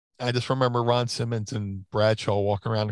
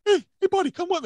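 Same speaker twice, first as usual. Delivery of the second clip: Bruiser Bedlam imitation; faster than usual. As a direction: ham up a gym bro sizing you up. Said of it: "he sees me at the show and goes".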